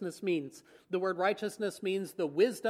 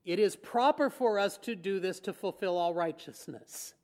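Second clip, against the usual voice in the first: simple, calm reply. Retold or imitated. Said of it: "he just simply says".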